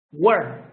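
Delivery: "Were" with a short r-coloured vowel. Shown as a demonstration. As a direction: say "Were" like "wer", no "ee". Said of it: "Pronunciation, were".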